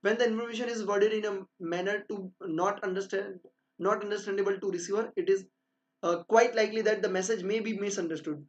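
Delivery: slow, deliberate dictation of a definition; slow textbook reading. Acted. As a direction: read it out as if dictating notes. Reads definition slowly. (धीरे-धीरे notes लिखवाते हुए)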